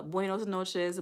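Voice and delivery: "buenos noches" slow, careful, each word drawn out; trying Spanish. Shown as a demonstration. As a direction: sound out "buenos noches" slowly like a learner. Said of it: "how you say good morning in Spanish".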